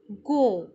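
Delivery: clear, loud syllable model; syllable demo. Shown as a demonstration. Teacher sounding out a syllable for kids, loud and clear. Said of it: "किस तरह से उच्चारित करेंगे?".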